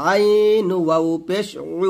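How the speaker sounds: আইন pressed from the middle of the throat; আইন with a pressed throat sound; throat pressed ain. Shown as a demonstration. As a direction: squeeze the আইন from the mid throat. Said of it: "হলকের মাঝখান থেকে চাপ দিয়ে একটু বলবেন".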